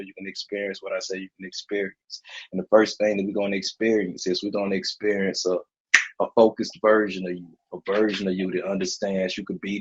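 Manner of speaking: calm, certain hypnotist voice; hypnotic suggestion. Acted. Giving suggestions in trance.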